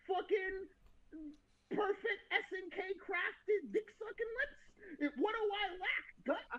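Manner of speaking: hammed-up laughing lament; mock jealous rant. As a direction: plead like a jealous lover. Ranting as jealous Griffith.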